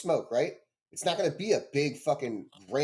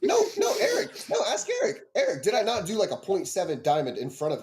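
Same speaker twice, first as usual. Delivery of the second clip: high-pitched, urgent appeal for backup; insistent protest; 5 semitones higher than usual. Real, not acted. Arguer calling on his friend as witness, high and insistent. Calls on Eric to back him up.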